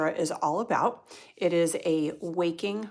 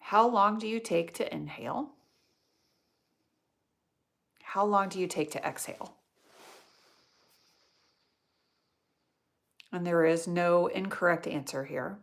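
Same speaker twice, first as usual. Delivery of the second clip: guided meditation. Real, not acted. Yoga teacher guiding students through nostril breathing, meditative. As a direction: guide the breath gently, leaving space between phrases.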